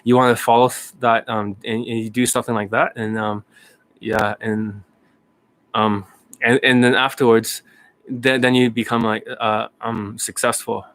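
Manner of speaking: lightly imitated low, halting tech founder; Elon Musk. Playing the founder giving strategies, halting low impression. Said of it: "that's how he talks".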